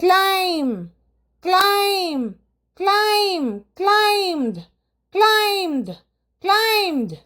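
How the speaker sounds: ക്ലൈം and ക്ലൈംഡ് repeated slowly with high, clear falls and no b; repeat-after-me drill of ക്ലൈം, ക്ലൈംഡ് with silent b. Shown as a demonstration. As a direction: lead the class through ക്ലൈം and ക്ലൈംഡ് with the b silent. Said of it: "ഞാൻ പറയുന്നതോടൊപ്പം തന്നെ പറയൂ".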